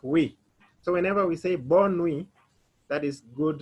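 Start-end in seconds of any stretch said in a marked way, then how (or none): 0.0-0.4 "we" as a single WEE syllable; UI sounded as WEE. Shown as a demonstration. Teacher repeats the rule for students, WEE sound. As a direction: say "we" for the French U-I. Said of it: "it will be like".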